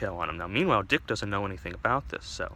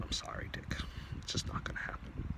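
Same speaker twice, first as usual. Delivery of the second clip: hushed, much softer apology; gentle refusal; 11 dB quieter than usual. Acted. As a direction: break bad news almost under your breath. Doctor gently breaks bad news.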